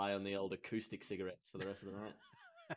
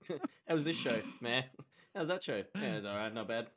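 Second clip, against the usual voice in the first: mocking the hosts; 3 dB louder than usual. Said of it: "and then they say".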